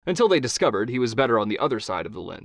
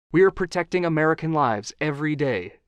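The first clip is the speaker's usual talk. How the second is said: rehearsed line; 5 semitones higher than usual. Acted. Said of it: "she repeated in her head".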